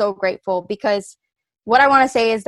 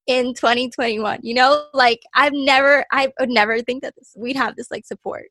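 getting emotional; 2 semitones higher, 4 dB louder than usual. Real, not acted. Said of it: "I don't wanna get emotional".

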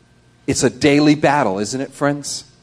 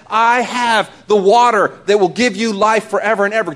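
mildly raised proclamation; crying out; 3 semitones higher than usual. Retold or imitated. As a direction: proclaim it to all who hear. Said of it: "Jesus cried out and said".

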